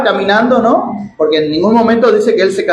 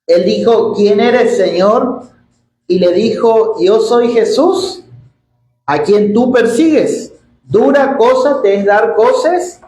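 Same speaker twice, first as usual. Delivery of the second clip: slow, raised scripture reading; 3 semitones higher than usual. Acted. Preacher reads Saul's conversion to the church, solemn scripture reading. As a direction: read out the verses slowly, drawing out phrase ends.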